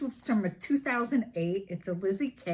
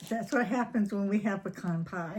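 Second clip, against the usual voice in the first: laughing. Real, not acted. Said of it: "We have been laughing so hard".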